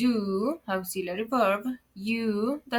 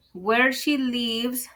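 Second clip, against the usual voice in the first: slow mistake demo; 3 semitones higher, slower than usual. Shown as a demonstration. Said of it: "here a common mistake".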